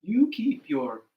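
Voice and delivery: loud, deliberate, drawn-out words; slow motto. Acted. Mother advises Turtle, slow and emphatic. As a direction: spell out the lesson for a group to repeat. Mother's slogan for audience repetition.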